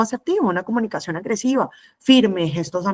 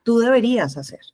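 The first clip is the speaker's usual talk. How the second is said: higher-pitched, mildly aggressive demand; 4 semitones higher than usual. Shown as a demonstration. Teacher imitating an aggressive communicator, mildly pushy. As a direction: impose it on the listener. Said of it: "La agresiva es".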